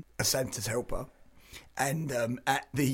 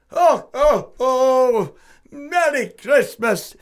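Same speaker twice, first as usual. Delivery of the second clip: high, loud hammed-up northern Santa; northern creepy Santa; 8 semitones higher, 6 dB louder than usual. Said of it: "I'm gonna give you the voice".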